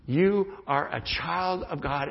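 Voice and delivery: slow repeated assurance; sincere affirmation. Shown as a demonstration. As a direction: say it again, gently and slowly. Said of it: "we just affirmed those truths".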